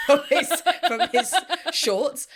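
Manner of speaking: words broken by laughter; laughing while reading. Real, not acted. Laughing through crude quote.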